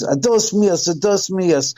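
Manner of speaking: high-pitched mock scream in Spanish; panicked mock yell of a scared laborer; retold scream. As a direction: pitch it way up like a terrified worker. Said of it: "and he screams".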